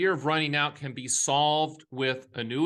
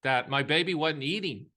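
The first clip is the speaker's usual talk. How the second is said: moved by a painful memory, pitch raised; real emotion; 3 semitones higher than usual. Real, not acted. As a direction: speak from a hurt that still lingers. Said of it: "just me talking about that brings tears to my eyes".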